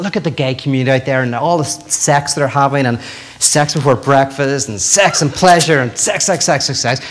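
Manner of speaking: a minister mildly thundering from the pulpit; preaching minister. Retold or imitated. Minister condemning the gay community, mock preaching. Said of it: "a minister standing up and going".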